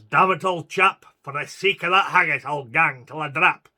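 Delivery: loud, straining vow; loud defiant oath. Acted. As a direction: force it out with grim resolve. Exhausted soldier swears, pushes on.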